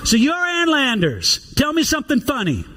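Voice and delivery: light southern drawl on a senator's quip; a hint of a Southern senator teasing. Senator to Ann Landers at a reception, lightly southern drawl. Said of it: "says kind of in a southern drawl".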